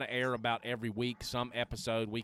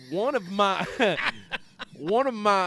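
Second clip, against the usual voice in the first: higher, louder, through a laugh; 9 semitones higher, 10 dB louder than usual. Real, not acted. Host naming someone he looks up to, laughing. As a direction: break up mid-phrase. Breaks up laughing mid-sentence.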